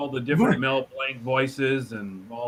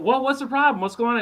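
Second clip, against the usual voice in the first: quick New York talk; 7 semitones higher, 4 dB louder, faster than usual. Retold or imitated. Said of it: "and said".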